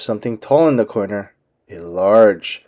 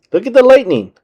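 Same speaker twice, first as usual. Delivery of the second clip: Goofy voice; 10 semitones higher, 4 dB louder, faster than usual. A narrator's reading.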